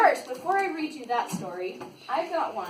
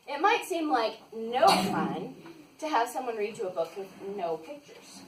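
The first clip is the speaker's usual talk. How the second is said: slower, careful second take; slow, deliberate reread; 4 semitones lower than usual. Shown as a demonstration. Reading to kids, retrying the line slowly. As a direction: read it again slowly and carefully. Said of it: "No, let me try that again".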